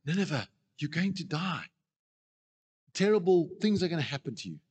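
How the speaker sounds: a caring, heartfelt warning of doom; loving warning. Shown as a demonstration. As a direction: plead with the city as if you love it. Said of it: "if I was going in love".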